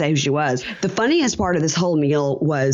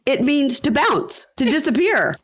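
imitating Pedro; 10 semitones higher than usual. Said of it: "he says".

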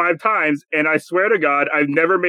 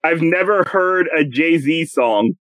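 slow, clear repeat; much slower than usual. Shown as a demonstration. Host rereads a quote the player didn't hear, slow and clear. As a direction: read slowly and evenly.

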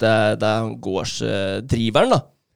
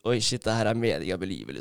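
awed revelation; 3 semitones lower, 6 dB quieter, faster than usual. Retold or imitated. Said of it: "da fikk jeg en sånn åpenbaring".

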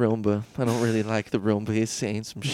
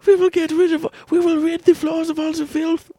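robot voice; 4 dB louder than usual. Pretend. Roomba voice bit.

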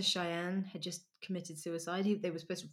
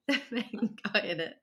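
put-on Brummy accent; 4 semitones higher, 3 dB louder than usual. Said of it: "that was my Brummy accent".

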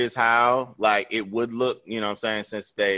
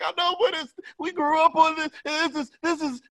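high, choked-up mock wife; imitating teary wife. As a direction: mimic her getting teary. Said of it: "She was like".

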